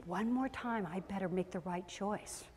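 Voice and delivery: mock sudden realisation, trailing down soft and low; imagined compliant child. Imagined son magically giving in, mock compliant. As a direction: sink into quiet mock obedience. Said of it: "he was just going to magically go".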